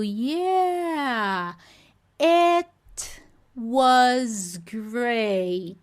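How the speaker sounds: "Yeah, it was great" slow with a hard t on it; exploded t version. Shown as a demonstration. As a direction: explode the t between words. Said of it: "Era pra eu tá ouvindo essa explosão". (com o t explodido)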